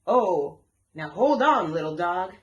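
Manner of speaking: a hint of a gentle alligator reassuring; Louis calming the dog. A narrator's reading. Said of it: "Louis spoke to Stella".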